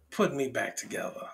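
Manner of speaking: soft whispered prayer; asking God in a whisper; whispered plea. Real, not acted.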